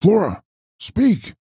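high, slow, pleading call; crying out. A narrator's reading. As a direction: beg for an answer, pitched well up. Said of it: "he cried".

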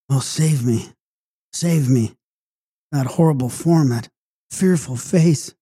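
mildly urgent, frightened plea; firmer pleading. A narrator's reading. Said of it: "she spoke in a firmer tone".

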